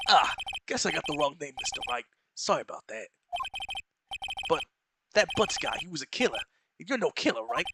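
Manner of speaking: a hint of a blustering detective; detective sizing up the lawyer, lightly voiced; gruff detective.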